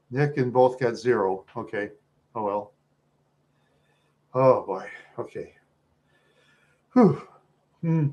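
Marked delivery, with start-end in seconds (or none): none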